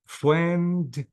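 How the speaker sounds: "friendly" slowly split as friend, lee; two syllables. Shown as a demonstration. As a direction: pause inside "friendly" after friend. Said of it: "two syllables".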